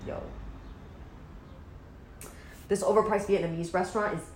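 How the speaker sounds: lightly put-on hype voice; imitating brother. Sister mimics brother rating a restaurant, lightly put-on voice. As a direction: talk up the food like a bro. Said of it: "that's how he talks".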